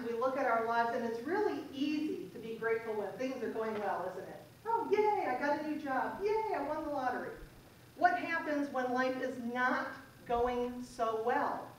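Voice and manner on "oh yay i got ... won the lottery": mock cheerful. Mock happy quote.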